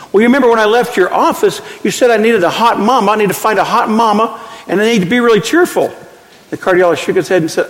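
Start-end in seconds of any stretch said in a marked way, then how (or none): 0.1-5.9 put-on cheerful old patient. Patient voiced in told joke.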